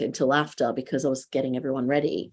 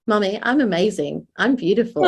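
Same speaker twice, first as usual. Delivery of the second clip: lightly voiced little girl, pitched higher; small daughter; 4 semitones higher than usual. Mum retelling her daughter's words, lightly voiced small child. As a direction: imitate a toddler proudly echoing mum, lightly. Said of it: "she started saying to me".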